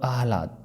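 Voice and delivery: second आह्लाद as "aah-laad", h first; correct pronunciation. Shown as a demonstration. Teacher contrasts two versions, carefully pronounced. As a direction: sound h before l in आह्लाद. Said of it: "दोनों में देखिए अंतर".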